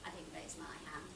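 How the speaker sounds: very low, hushed admission; subdued confession. Acted. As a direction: confess it softly, pitched right down. Character makes a reluctant confession.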